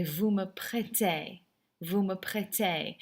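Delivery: "prêtez" said slowly with no z sound at the end; silent final Z. Shown as a demonstration. Teacher correcting students' French, slow model with silent Z in "prêtez". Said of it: "Never pronounce that Z".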